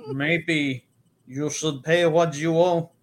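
badly faked Russian heavy; tough Russian accent. Shown as a demonstration. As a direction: make a half-convincing threat in bad Russian. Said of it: "No, that doesn't sound right either".

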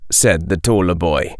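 ordinary delivery, nothing marked

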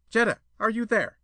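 high, loud, peevish call; strident peevish anger. A narrator's reading. Suitor losing patience at her window, strident and peevish. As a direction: demand she answer, irritated. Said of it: "strident, peevish anger".

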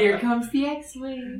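laughing slow singsong; slow, giggly baby-feeding voice; airplane spoon game. Pretend.

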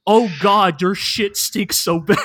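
mock despair breaking into laughter; disgusted desperation. Denji overwhelmed by the smell, disgusted and laughing. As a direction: groan it out, laughing near the end. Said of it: "fear and disgust and desperation".

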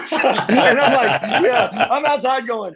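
can barely get the words out for laughing; real laughter spilling into the words. Real, not acted. Laughing while retelling the cops scene.

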